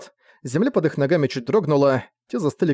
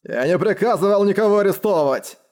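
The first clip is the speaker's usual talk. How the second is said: raised-pitch indignant denial; angry growl; 6 semitones higher than usual. A narrator's reading. Commander denying he ordered any arrest, growling angrily. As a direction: growl it out, moderately heated. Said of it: "прорычал Грэм".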